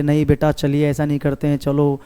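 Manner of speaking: a hint of a gentle mother coaxing her child; lovingly coaxing. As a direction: softly coax a crying child to school. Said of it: "उनकी mother प्यार से". (बच्चे को school ले जाती माँ का हल्का सा प्यार भरा मनाना)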